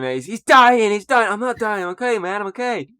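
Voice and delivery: high, panicky retold yelling; mock screaming. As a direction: imitate frantic screaming in a high voice. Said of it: "starts screaming at him".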